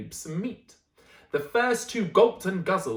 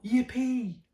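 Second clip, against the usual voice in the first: higher, bouncy yippee; excited cry; 6 semitones higher than usual. Acted. T. rexes cheering the fallen tree, higher and excited. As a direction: cheer it like a dinosaur off to hunt. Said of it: "cried out".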